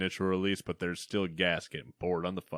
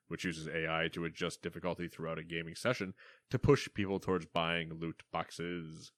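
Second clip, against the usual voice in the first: news anchor voice. Acted. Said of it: "got progressively deeper the more you read".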